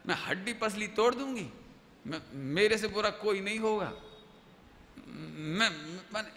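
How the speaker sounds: usual speaking voice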